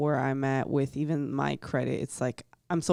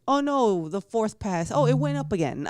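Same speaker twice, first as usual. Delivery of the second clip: mock-dismayed, much higher pitch; retold alarm to relief; 6 semitones higher than usual. Retelling a credit score scare, mock alarm to relief. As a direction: lightly act out a high-pitched reaction.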